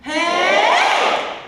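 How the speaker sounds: put-on whiny kid call; whiny hey. Shown as a demonstration. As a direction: clap and shout a whiny hey. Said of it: "Try it".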